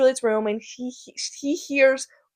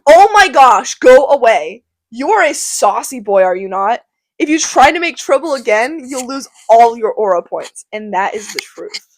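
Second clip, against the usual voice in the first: louder exasperated uncle; annoyed Capulet; 4 dB louder than usual. Acted. Capulet shooing away the saucy Tybalt, exasperated. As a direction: shoo off the troublemaker.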